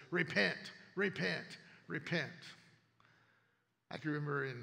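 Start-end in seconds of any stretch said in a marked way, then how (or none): 0.1-2.3 slow, drawn-out Repent, repent, repent, a bit louder; lightly hammed-up sign-waving preacher; mock street preacher. Pastor mimicking finger-pointing street preachers, slow and mock-stern. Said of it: "people standing and pointing and says".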